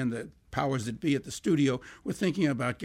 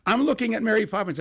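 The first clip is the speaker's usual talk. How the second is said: higher and louder, bursting with news; excited discovery; 7 semitones higher, 5 dB louder than usual. Retold or imitated. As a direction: announce it like a revelation. Brother thrilled on the phone.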